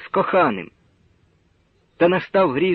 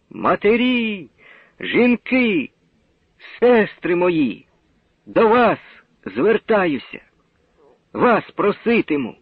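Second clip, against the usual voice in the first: sincere appeal; 5 semitones higher, slower than usual. Acted. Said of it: "грудний щиросердний голос".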